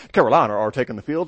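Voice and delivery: quick, light British accent on "Carolina are taking the field". Shown as a demonstration. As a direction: toss it off like a British announcer. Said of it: "from a nice British accent".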